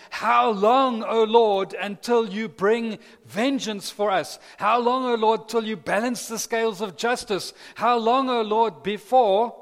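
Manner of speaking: loud, high pleading cry of the martyrs. Retold or imitated. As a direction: cry out to the Lord, begging for justice. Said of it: "but they're crying out".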